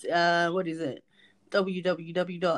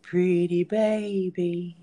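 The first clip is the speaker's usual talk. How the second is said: very slow soothing coo; lullaby voice; much slower than usual. Real, not acted. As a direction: lull a pet to sleep slowly. Lulling the bird to sleep.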